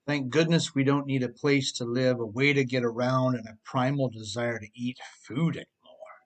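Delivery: dry mock relief; lightly sarcastic, as if it's good news; understated sarcasm. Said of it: "I'm being sarcastic".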